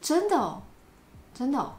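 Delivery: mild surprise, 真的哦 lifted up; a touch of surprise; slightly surprised. Shown as a demonstration. Teacher demoing a slightly surprised 真的哦. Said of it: "here it's slightly surprised".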